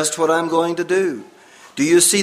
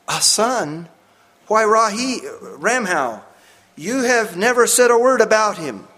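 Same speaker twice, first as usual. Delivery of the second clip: higher, louder surprised questioning; astonished; 5 semitones higher, 4 dB louder than usual. A narrator's reading. Missionary learning of his friend's secret son, astonished. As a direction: react with amazement at the news.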